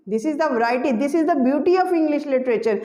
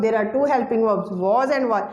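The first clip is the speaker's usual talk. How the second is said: each word of the rule spoken slowly; slow emphasis; 3 semitones lower, much slower than usual. Shown as a demonstration. Teacher stating the rule to students, slowly and deliberately. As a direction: give the rule slowly so it sinks in.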